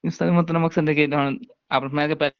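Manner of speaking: broken, dropping audio; tape dropouts. Real, not acted. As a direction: voice cutting out on the line. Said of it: "آواز کٹ گئی آپ کی".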